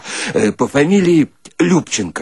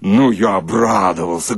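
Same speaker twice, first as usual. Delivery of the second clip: ordinary delivery, nothing marked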